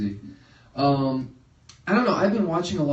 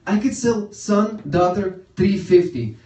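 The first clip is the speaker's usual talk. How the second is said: high, slow mock-indignant dad; outraged haggler; 6 semitones higher, 5 dB louder, slower than usual. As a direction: haggle loudly in exaggerated indignation.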